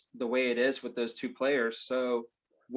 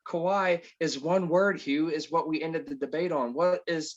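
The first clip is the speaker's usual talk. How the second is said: car salesman pitch; 4 semitones higher than usual. Pretend. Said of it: "getting into my car salesman pitch here".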